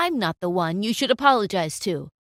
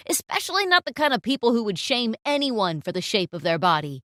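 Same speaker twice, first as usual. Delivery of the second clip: stern reprimand; 4 dB louder than usual. Acted. Client reprimands photographer.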